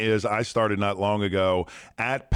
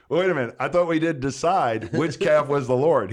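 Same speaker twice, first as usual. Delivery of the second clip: indignant wife; 6 semitones higher, 5 dB louder than usual. Retold or imitated. Wife catches husband's excuse.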